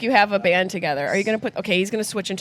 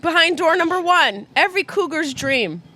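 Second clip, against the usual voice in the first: game show host; 6 semitones higher than usual. Pretend. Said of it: "Vanna White the fuck out of".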